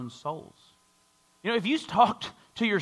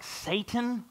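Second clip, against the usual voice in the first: incredulous skeptic; 5 semitones higher, 4 dB quieter than usual. Retold or imitated. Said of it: "Other of us are like".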